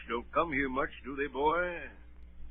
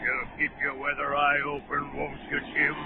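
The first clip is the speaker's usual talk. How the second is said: a lightly voiced gruff old captain, probing; old sea captain; 2 semitones higher, 4 dB louder than usual. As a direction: lean in like a suspicious old sailor. Captain repeats his warning.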